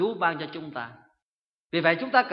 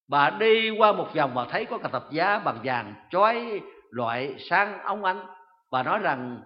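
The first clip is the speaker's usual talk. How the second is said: ordinary talk, nothing marked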